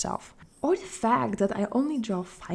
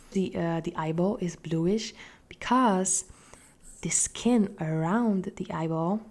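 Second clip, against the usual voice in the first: whispering; slower than usual. Acted. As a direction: whisper it gently, unhurried. Whispered explanation mid-tutorial.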